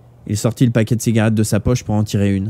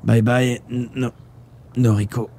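halting, broken goodbye; weak, stammered farewell; slower than usual. A narrator's reading. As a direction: struggle to get the name out. Dying man's stammered goodbye.

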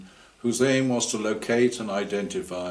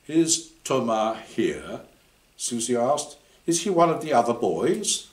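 eager question; 4 semitones higher, 3 dB louder than usual. Acted. Susie questions about boy.

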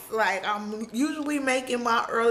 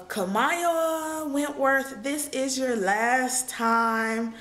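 final boarding call. Retold or imitated. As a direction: imitate an airline agent's last warning. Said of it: "that's when the person was just like".

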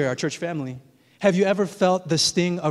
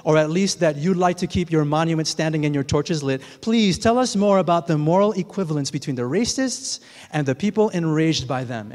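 mock pleading with dry sarcasm; sarcastic. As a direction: read it as a sarcastic plea to the deniers. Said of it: "then he says sarcastically".

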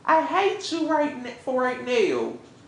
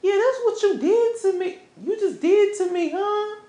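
higher-pitched, indignant accusation; accusing; 5 semitones higher than usual. Acted. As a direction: confront a cheating partner. Acted couple's quarrel, accusing partner.

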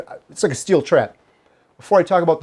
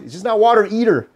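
broad Wisconsin vowels on "water either", voice raised; jokey Upper Midwest Wisconsin twang; Wisconsin accent; 5 semitones higher than usual. Shown as a demonstration. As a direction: say "It's just not water either" like a Wisconsin local, "either" as eether. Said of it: "That was my Wisconsin accent".

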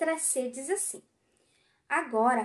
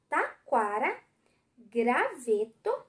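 slow syllable reading; 4 semitones lower, much slower than usual. Shown as a demonstration. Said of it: "três sílabas".

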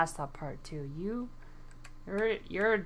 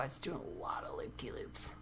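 whispering; 3 semitones lower, 15 dB quieter than usual. Real, not acted. Gamer whispering while thinking.

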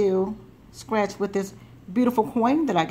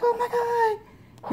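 imitating her excited outburst; a hammed-up cry at a win; mock excited yell; 3 dB quieter, much faster than usual. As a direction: mimic someone getting carried away. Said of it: "it got louder and louder".

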